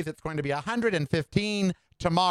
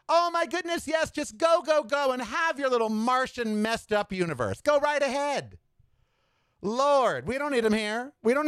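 much higher, sing-song shooing them away; high mocking send-off; 6 semitones higher than usual. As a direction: shoo them off to Mars in a high, sassy voice. Mocking MAGA off to Mars.

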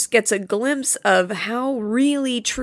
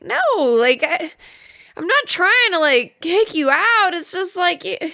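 higher, halting protest; mock backpedalling; 7 semitones higher than usual. Imitating Clint as she gets upset, mock backpedalling. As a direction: stumble through a higher-voiced excuse.

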